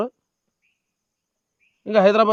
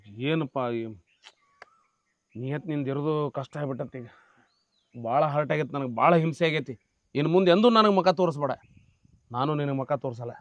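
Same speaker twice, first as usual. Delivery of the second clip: crying; 5 semitones lower than usual. Acted. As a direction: choke back tears as you speak. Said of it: "ಅಳಾಕತ್ತೀಯ?".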